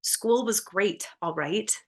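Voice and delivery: curt, clipped-off reply; curt teen reply, slowed. Acted. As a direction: brush them off curtly. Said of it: "She responds with a curt".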